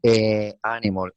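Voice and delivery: "Eh, animal" with the article as a separate eh; pronunciation demo. Retold or imitated. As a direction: quote "Eh, animal", article as eh before the noun. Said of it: "some person says".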